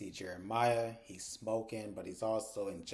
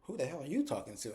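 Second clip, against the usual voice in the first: Bryce's echo; 4 semitones higher than usual. Retold or imitated. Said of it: "And he's like".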